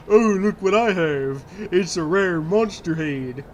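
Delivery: slow, lightly voiced snooty rich collector; rich man voice. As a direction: show off a trophy in a slow put-on toff voice. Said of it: "why I gave him that voice".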